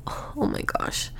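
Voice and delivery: slow, breath-only groan of disbelief; hushed mock dismay. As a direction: whisper it slowly, in dismay. Retold dismay at early clock.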